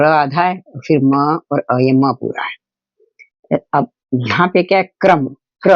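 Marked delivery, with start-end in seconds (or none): 5.0-5.7 क्रम, क्र with क run straight into र; no vowel between क and र in क्रम, क्र; half क, full र. Shown as a demonstration. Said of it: "क पहले बोल रहे हैं और र बाद में". (क्रम, क्र में आधा क, पूरा र)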